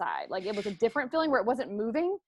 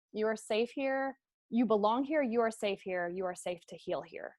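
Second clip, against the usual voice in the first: reassuring inner voice; 4 dB quieter than usual. Retold or imitated. Woman hearing comfort in her head, soft and reassuring. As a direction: comfort yourself gently.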